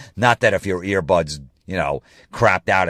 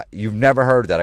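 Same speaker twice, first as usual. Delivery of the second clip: higher, louder imitation of his date; mock the date's disbelieving question; lightly put-on female voice; mimicked date; 5 semitones higher, 5 dB louder than usual. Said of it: "She goes".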